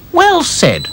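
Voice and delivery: high doll voice; approving Dotty. Acted. Dotty praising friend, approving. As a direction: approve warmly.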